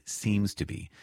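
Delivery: a light lean on "seems"; stress on SEEMS. Real, not acted. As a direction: set "seems" slightly apart for emphasis. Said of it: "I want to emphasize the word".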